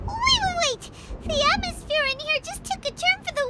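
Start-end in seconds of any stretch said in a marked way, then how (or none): 0.1-0.9 high, urgent alarmed cry; alarmed wait. Acted. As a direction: panicky plea to stop them. Fight about to break out.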